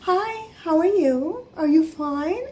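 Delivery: mom's high-register sweet voice, slow and drawn out; Titty voice. Retold or imitated. Mom lightening the mood with a greeting, high sweet voice. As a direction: imitate a very high, singsong greeting. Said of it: "voice that she went into at the higher register".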